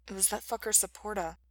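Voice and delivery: soft mumble into a shoulder; muffled. A narrator's reading. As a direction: lay the blame in a small voice. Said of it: "muffled against Mikey's shoulder".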